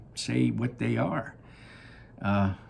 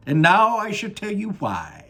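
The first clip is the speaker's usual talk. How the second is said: Willy Wonka voice; 11 semitones higher, 8 dB louder than usual. Acted. Wonka gazing down at his factory, high and delighted. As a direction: sing it out like a proud candy maker.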